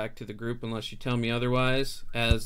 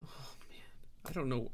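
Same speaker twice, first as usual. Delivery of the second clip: whispered; 10 dB quieter than usual. Real, not acted. Player unsure, whispering.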